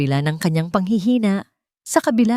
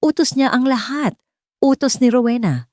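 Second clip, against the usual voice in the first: desperate accusation; 7 semitones higher than usual. A narrator's reading. Arrested man blaming Rowena.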